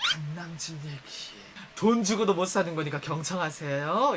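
mock solemn announcement. Teasing a bragging friend with fake reverence. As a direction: announce it like sacred news. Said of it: "이러면".

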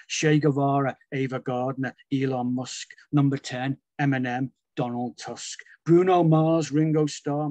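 rhythmic chanted list, punchy on each name; spoken word poem with a driving rhythm; performance poem. Acted. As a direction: rattle the names off to a steady beat.

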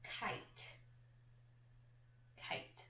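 soft unvoiced whisper of Kite; whispered word. Shown as a demonstration. Teacher whispers the word for sounding out. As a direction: breathe the word Kite without voice. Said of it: "What sounds do you hear in there?".

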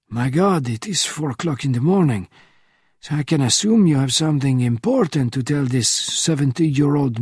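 a hint of a weary old spy at four in the morning; old man roused from sleep, a touch testy; elderly Bernardin, woken. Voices old Bernardin on phone.

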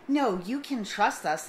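lightly imitated cajoling of a small child; mock coaxing. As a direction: retell it as if coaxing a toddler. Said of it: "convince a three-year-old to eat broccoli".

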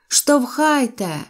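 high, long-stretched command; yelling. A narrator's reading. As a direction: holler it out, dragging the word. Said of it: "волав я". (протяжно волає)

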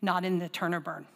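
slow, deliberate repeat. Shown as a demonstration. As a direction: drag out "to turn in the shade" slowly. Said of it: "one more time too".

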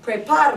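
PREPARO joined up, stressed on PA. Shown as a demonstration. Teacher confirming how we pronounce it, PA stressed in PREPARO. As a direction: hit PA in "Preparo" and fall away after it. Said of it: "That's exactly how we pronounce it".

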